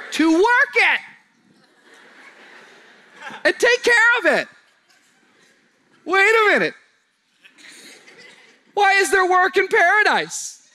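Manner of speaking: high, loud preacher's cry; loud, high pulpit cry with a laugh in it; preaching at full force. Acted. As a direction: lift it up to the back row, full volume.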